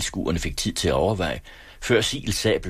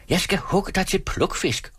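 furious shout; 13 semitones higher than usual. A narrator's reading. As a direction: shout the threat in a much higher, enraged voice. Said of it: "råbte Frans rasende". (rasende råb i højt toneleje)

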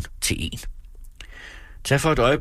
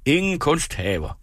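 walkers crying out; 7 semitones higher than usual. Retold or imitated. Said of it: "råber de spadserende".

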